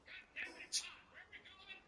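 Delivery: put-on high, whiny old-man grumbling; mock old-timer gripe; grumpy old man. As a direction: complain like a cranky husband trailing his wife. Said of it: "old guy walking behind his wife going".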